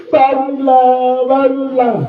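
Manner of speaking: very slow drawn-out plea; mock pleading cry. Mourners begging dead Niko to rise, mock wailing. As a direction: drag out the wail to wake him. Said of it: "Dia nangis terus".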